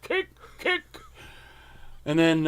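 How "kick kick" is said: loud, high barked coach calls; swimming coach impression. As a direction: bark orders at the boys in the pool. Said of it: "he was our swimming coach".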